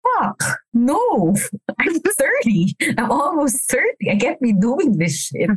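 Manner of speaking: retold panic. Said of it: "parang ako like".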